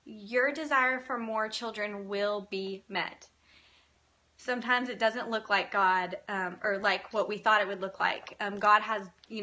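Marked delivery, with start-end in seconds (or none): 0.0-3.3 slow, measured promise to the listener; slowly and deliberately, as a personal declaration; direct, deliberate assurance. Real, not acted. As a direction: say it straight to them, drawing out each word. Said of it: "I'm gonna say that to you".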